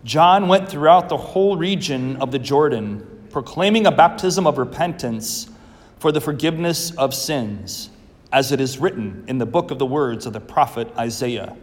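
measured, solemn proclamation; liturgical Gospel reading. Acted. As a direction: read it like scripture from the ambo.

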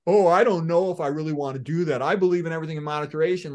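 lightly mocking whiny excuse; whining. Doctor imitating a patient resisting diet, mild mock whine. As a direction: whine it like a reluctant patient dodging change. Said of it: "instead of whining like an idiot saying".

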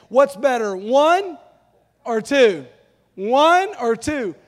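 lightly acted optometrist, loud and deliberate; optometrist quizzing. Pastor imitating optometrist at eye test, lightly acted quizzing. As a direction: pose each lens choice slowly, lingering on "one". Acts out optometrist testing lenses.

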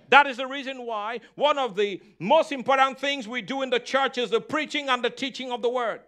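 driving, insistent sermon delivery; emphatic preaching. Real, not acted. Preacher urging the congregation to trust the word, emphatic preaching. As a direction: preach it with punchy stressed key words. Preacher builds up his message.

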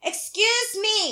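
very slow "Excuse me", stress on excuse and a falling end; drawn-out excuse me. Retold or imitated. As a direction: stretch "Excuse me" slowly, in disbelief. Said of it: "I was like".

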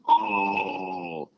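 long drawn-out "ooh"; imitated crowd reaction. Retelling the whole crowd's reaction, drawn-out mock shock. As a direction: mimic an audience reacting to a burn. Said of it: "the whole crowd went".

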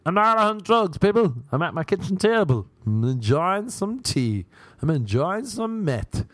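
mock insistent shout. Insisting live on air.

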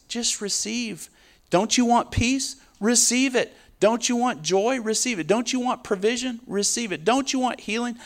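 imagined believer urging a friend to receive; eager witnessing. Retold or imitated. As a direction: coax them to receive it. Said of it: "you're like".

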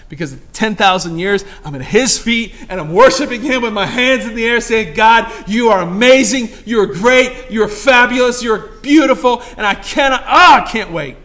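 loud, high, ringing sermon delivery; fired-up preacher, rising and pounding the point; preaching at full force. Real, not acted. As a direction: preach it out to the whole room. Preaching worship climax.

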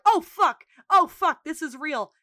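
high, loud retold alarm; mock panic. Store manager seeing gun is real, mock panic. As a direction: yelp the swearing, then ease off.

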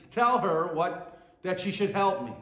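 bossy and impatient, telling not asking; blunt demand. Retold or imitated. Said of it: "without the word please".

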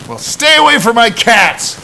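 put-on high, slow, loud voice of an odd old neighbor. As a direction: drawl it like a strange cat owner. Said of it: "And I hear this".

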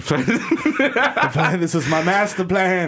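slow scheming villain. Retold or imitated. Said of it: "He's like".

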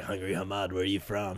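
taunting instructor imitation. Instructor taunting recruit in retold exchange.

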